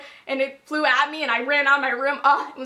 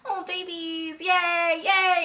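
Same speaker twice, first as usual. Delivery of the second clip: cooing delight; 4 semitones higher, much slower than usual. Retold or imitated. Re-enacting her joy for the couple.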